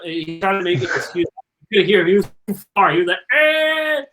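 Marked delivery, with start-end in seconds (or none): 3.3-4.0 mock bark. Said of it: "He started barking".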